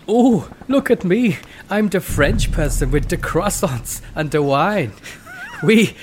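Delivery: put-on over-the-top comic foreign accent; mock French impression. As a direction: act out a silly French person in loose German. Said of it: "Claude was doing the impression of the French persons".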